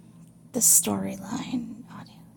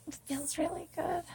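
soft, higher-pitched stab at Scottish; attempted Scottish accent; 5 semitones higher, 11 dB quieter than usual. Shown as a demonstration. Trying Scottish after the Irish attempt, soft Scottish accent. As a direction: try a quiet Scottish accent, raised pitch. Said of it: "maybe I could try you doing a Scottish".

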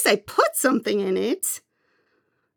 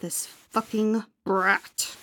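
muttered aside; 2 semitones lower, 7 dB quieter, slower than usual. Acted.

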